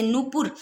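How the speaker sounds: नुपुर slowly, with long oo first; नुपुर with first vowel held. Shown as a demonstration. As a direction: show नुपुर as a long noo and a short pur. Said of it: "ऐसे नुपुर".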